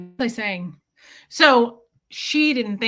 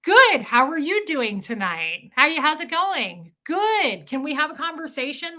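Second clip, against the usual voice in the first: high, loud eager small talk; imitating herself chatting up the waitress; mock chatty diner; 6 semitones higher, 4 dB louder than usual. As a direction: bounce it up like you're dying to chat.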